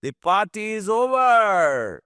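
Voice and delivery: high, very slow, booming call; loud announcement. A narrator's reading. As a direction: announce it to the whole room. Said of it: "అని announce చేసిన రంజిత్".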